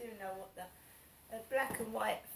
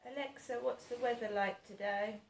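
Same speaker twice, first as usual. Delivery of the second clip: talking to voice assistant; 3 semitones higher, 4 dB louder than usual. Real, not acted. Asks Alexa again.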